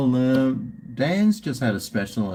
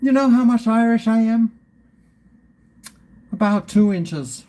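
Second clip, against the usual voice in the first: jokey; 9 semitones higher, 4 dB louder than usual. Real, not acted. Joking about his Irishness.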